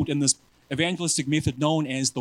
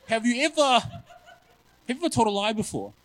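laughing through the question; 7 semitones higher than usual. Retold or imitated. Quoting himself, laughing.

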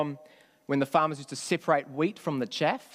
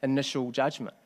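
reflective concession. Retold or imitated. Preacher voicing Simon reconsidering his harsh judgment, reflective concession. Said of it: "Looking at the context and going".

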